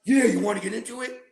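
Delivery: lightly voiced nonchalant buddy; repeated quote. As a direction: toss it off like nothing. Repeats friend's offer.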